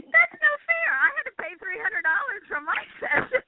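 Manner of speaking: high, half-laughing mock complaint; mock outrage. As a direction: play the cheated daughter, tongue in cheek.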